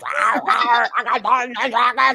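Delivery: mock dragon yell. Mocking Adam's yell to the co-hosts, chanted mock shout. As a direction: roar it out like a dungeon dragon, half joking. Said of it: "And then he went to yell like that".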